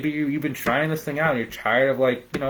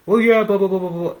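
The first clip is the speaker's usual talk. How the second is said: higher, louder hammed-up excuse babble; mock flustered owner; 8 semitones higher, 7 dB louder than usual. Coach imitates a caught-out owner babbling excuses, higher and louder. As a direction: squeak out a caught-out yes and babble. Mocking evasive business owner.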